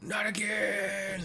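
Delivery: gentler hammed-up defeat; second villain wail. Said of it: "Sorry, that's probably better".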